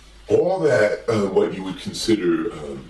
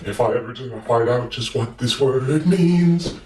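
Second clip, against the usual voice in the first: much higher, wondering bird voice; high Big Bird voice; 5 semitones higher than usual. Acted. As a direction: ask Gordon in a high, eager bird voice. Big Bird sings about the word.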